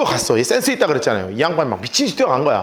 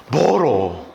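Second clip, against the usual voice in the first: usual speaking voice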